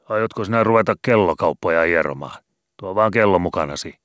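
loud, exasperated sailor; impatient skipper. A narrator's reading. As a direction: hurry the cantor up. Matti impatient.

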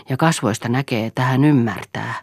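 plain reading voice

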